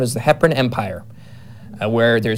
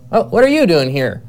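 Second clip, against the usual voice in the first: higher, mild surprise on a quoted greeting; mildly surprised stranger; 5 semitones higher, 4 dB louder than usual. Retold or imitated. Stranger greets the fleeing woman he comes across, mildly surprised. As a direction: lightly act out a surprised stranger.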